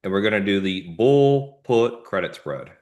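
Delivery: the word credit leaned on; stress on credit. Shown as a demonstration. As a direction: give credit a firm push. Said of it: "Emphasis on the word credit".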